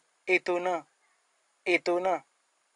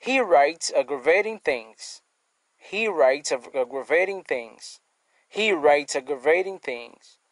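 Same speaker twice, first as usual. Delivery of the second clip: He writes aggravating things said slowly and evenly; slow example sentence; slower than usual. Shown as a demonstration. Teacher repeating an English example to the class, slow. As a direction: spell it out in speech, slowly, for learners. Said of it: "Et un exemple très simple".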